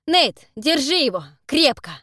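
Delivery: slow, loud, commanding; loud order. Acted. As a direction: bark the order to hold him. Tederik ordering Nate to hold Zak.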